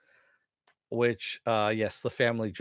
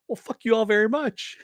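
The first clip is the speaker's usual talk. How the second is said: high, loud mock shout of a parting curse; King Shark yelling; 12 semitones higher, 7 dB louder than usual. King Shark yells at the fish turning away from him, high and loud. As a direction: hurl it at the fish who turned away. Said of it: "and he goes".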